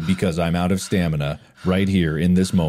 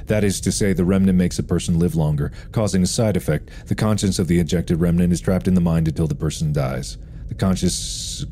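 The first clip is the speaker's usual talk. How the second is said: reading aloud; faster than usual. A narrator's reading. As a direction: read the journal entry out evenly. Reads a game note aloud.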